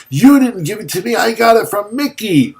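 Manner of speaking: mocking Jim. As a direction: parody him in a high, quick sneer. Mocking Jim's claim back at him.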